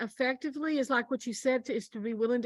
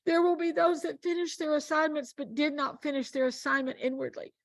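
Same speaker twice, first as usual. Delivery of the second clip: Lord speaking; 5 semitones higher than usual. Retold or imitated. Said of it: "and the Lord said".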